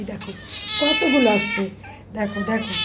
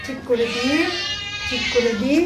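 coaxing whisper; 2 semitones higher, 6 dB quieter than usual. Real, not acted. Coaxing a cat close while feeding it, soft whisper. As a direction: coax the cat gently, barely voiced.

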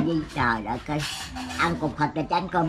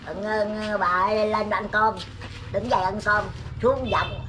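raised voice calling to dinner; calling family to dinner; 4 semitones higher, slower than usual. Real, not acted. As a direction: call the family to eat. Calling grandma to eat. (gọi cả nhà ăn cơm)

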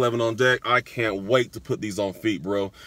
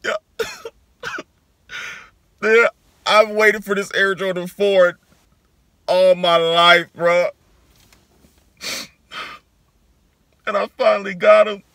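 loud, hyped, stretching all my life; excited; 7 semitones higher, 6 dB louder than usual. Real, not acted. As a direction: brag loudly about the long wait, then rush the end. Finally got dream sneakers.

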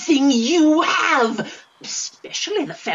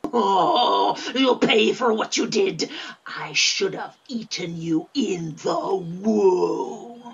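tearful vengeful snarl; angry crying; 2 semitones lower than usual. Acted. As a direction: threaten through tears. Twin threatens brother.

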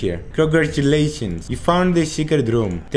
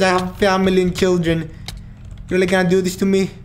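pleading; 5 semitones higher, faster than usual. Real, not acted. Begs attacker for mercy.

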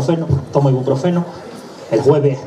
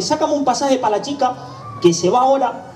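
voz del padre; 8 semitones higher than usual. Acted. Hombre pide pasaje por teléfono.

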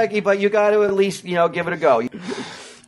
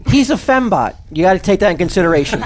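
loud; 5 dB louder than usual. Real, not acted. Ranting comedic bit, loud.

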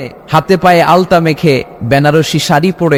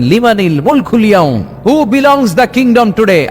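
ringing roar, climbing higher; roaring challenge; 4 semitones higher, slower than usual. Acted. Allah demanding whose kingdom it is, roaring challenge. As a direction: thunder the question like a preacher. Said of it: "হুঙ্কার দিয়ে বলবেন".

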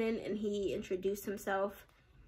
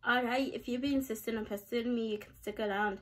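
bad Scottish accent. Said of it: "unlock my inner bad Scottish accent person".

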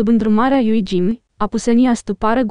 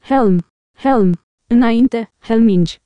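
understated narrated rallying cry; mildly raised voice, rallying the men; a touch of a thundering war cry; thundering battle cry; slower than usual. A narrator's reading. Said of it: "adăugă el cu un glas tunător".

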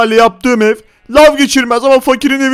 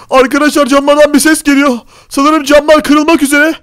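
higher-pitched anxious narration; frightened; 5 semitones higher than usual. Acted. Player hearing the windows about to break, frightened. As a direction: tell viewers in raised, worried tones. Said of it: "çok korkuyorum".

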